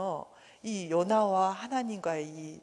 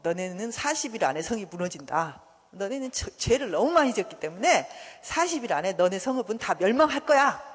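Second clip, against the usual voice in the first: prophet's warning rising in volume; proclamation; 4 dB louder than usual. Acted. Jonah warning Nineveh of destruction, proclaiming it. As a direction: declare doom, building to a loud finish. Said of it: "이렇게 선포를 했거든요".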